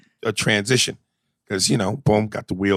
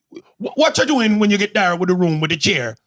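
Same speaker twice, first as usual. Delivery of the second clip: high-pitched Jamaican interrogation; nosy Jamaican housekeeper, voice raised high; Jamaican woman; 10 semitones higher, 4 dB louder than usual. Retold or imitated. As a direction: keep grilling him in a Jamaican accent. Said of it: "is a six-foot-two Jamaican woman".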